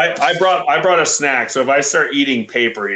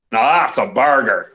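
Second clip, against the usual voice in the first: attempted Australian accent. Host quoting someone unimpressed by size, attempted Australian accent. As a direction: have a poor go at an Australian accent. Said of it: "I cannot do the accent".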